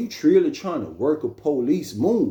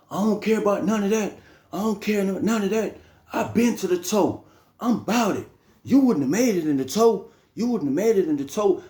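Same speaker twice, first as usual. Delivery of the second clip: uncle's voice; 5 semitones higher than usual. Retold or imitated. Uncle voiced in retold prison story.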